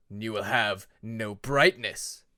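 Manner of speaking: slow, loud, dark threat; menacing dragon. Acted. Shadow dragon threatening Peacemaker, slow and loud. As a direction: pronounce his doom slowly.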